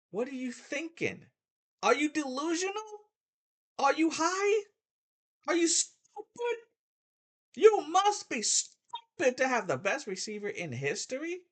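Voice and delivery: disbelieving outrage, peaking on "Really?"; incredulous rant. Real, not acted. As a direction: berate them like they're out of their minds. Ranting at critics about stats.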